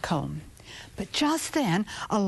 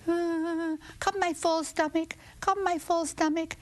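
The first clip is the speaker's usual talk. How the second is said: high call; 6 semitones higher than usual. Acted. Rooster summons stomach.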